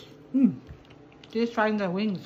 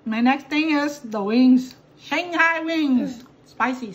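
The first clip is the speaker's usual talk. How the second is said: drawn-out, higher announcement; slow announcing voice; 3 semitones higher, 5 dB louder, slower than usual. Real, not acted. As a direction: present it slowly like a show host. Announcing next dish.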